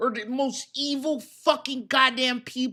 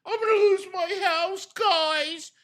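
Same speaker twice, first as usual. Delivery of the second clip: whiny plea to the audience, pitched higher; mock whine; 4 semitones higher than usual. Imitating Phil asking his viewers for pity, whiny. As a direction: mimic a begging streamer, hammed up.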